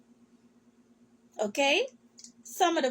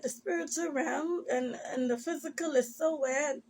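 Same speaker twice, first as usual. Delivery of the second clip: soft laugh mixed with crying; half laugh, half sob; laughing through tears; 4 dB quieter than usual. Real, not acted. Vlogger laughing and crying at once about her strange life.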